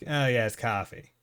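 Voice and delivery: mild New England "coffee" with an AH; lightly voiced New England accent, open AH in "coffee". Shown as a demonstration. New Englander showing the local vowel, mild New England accent. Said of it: "the generalized New England accent".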